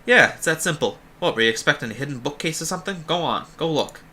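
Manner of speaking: put-on Quark, vaguely Bostonian accent. Guard sending doubtful travellers onward, vaguely Bostonian. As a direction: brush them off with a loose Boston accent. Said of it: "using, like, a vaguely Bostonian accent for him".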